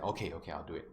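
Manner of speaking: low, soft, grudging consent; reluctant agreement. Retold or imitated. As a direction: give in with slight annoyance. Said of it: "he looked a bit annoyed".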